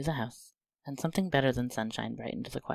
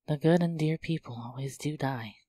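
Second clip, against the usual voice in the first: groaning; 3 semitones higher than usual. Acted. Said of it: "groaned Jo".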